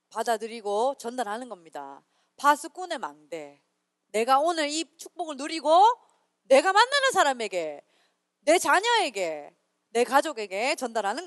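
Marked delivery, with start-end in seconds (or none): none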